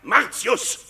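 viel höher, zuletzt sehr langsam gedehnt; verächtlicher Ruf. Acted. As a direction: dehne den vollen Namen voller Hohn. Höhnische Namensnennung im Streit. (Ankläger dehnt den Namen verächtlich viel höher)

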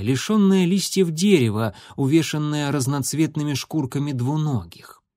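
ordinary delivery

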